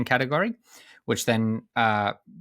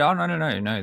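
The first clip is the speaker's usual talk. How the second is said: higher-pitched, retold "oh no" reassurance; quick reassuring denial; 6 semitones higher than usual. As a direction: wave the worry away, voice lifted. Retelling a man's reassuring denial.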